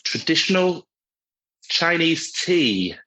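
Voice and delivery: slow, drawn-out spooky guess. Pretend. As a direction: draw out oolong like a ghost. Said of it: "doing a spooky voice so excellently".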